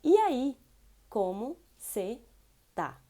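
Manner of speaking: E aí loud, como você tá said apart; careful teacher repeat; slow repeat. Shown as a demonstration. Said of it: "slow repeat".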